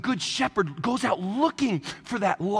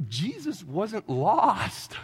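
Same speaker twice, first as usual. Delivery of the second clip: dry retort; much slower than usual. Retold or imitated. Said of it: "I always wanna be like".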